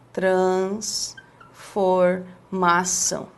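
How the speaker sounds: "Transformação" low, soft and very slow, in separate chunks; broken into pieces. Shown as a demonstration. Teacher imitates someone splitting the word, low slow pieces. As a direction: murmur "trans... for... mação" slowly, as if writing it. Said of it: "aí a pessoa começa assim".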